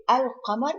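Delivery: "al-qamar" with the l fully sounded; lam pronounced. Shown as a demonstration. Teacher giving the example of lam qamariya, "al-qamar" with audible l. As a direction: say "al-qamar" keeping its l. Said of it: "it is pronounced".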